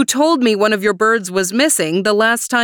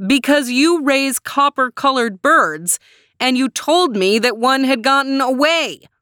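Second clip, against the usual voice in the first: high-pitched, exasperated-to-be-heard raised voice; mild scream for poor ears; mock scream; 6 semitones higher than usual. A narrator's reading. Man explaining to deaf neighbor, mild high scream. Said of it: "he screamed".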